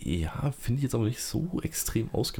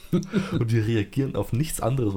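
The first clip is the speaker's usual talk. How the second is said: laughing; 3 semitones higher, 4 dB louder than usual. Real, not acted. Laughing while plotting prank.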